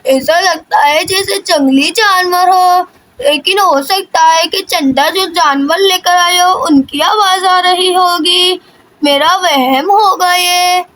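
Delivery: slow, drawn-out puzzled grandmother; lightly voiced grandmother. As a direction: lightly play an uneasy old grandmother, taking it slowly. Grandmother figure in story. (हल्की-सी दादी की आवाज़, धीरे-धीरे)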